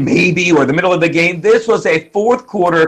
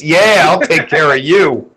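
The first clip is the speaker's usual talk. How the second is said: doting mom voice; 3 semitones lower than usual. Retold or imitated.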